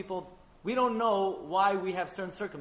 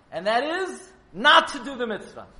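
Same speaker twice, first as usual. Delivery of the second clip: laughing; 6 semitones higher, 10 dB louder than usual. Real, not acted. Punchline of the paradox.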